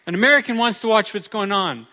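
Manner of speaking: mock calling out to hush a whole room; retold yell. Store clerk hushing customers for an American, imitated yell. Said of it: "he yelled at the top of his lungs".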